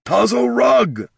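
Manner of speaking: high, slow cry of a name; cracking cry. A narrator's reading. Brother crying out his sister's name, high and slow. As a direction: cry her name out, breaking. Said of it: "his voice cracking and choked".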